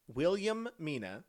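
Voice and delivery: Williamina slowly spelled out, WIL-yuh-MEE-nuh with a long m; careful pronunciation. Shown as a demonstration. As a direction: say Williamina deliberately, stress on MEE. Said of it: "Not Wilhelmina".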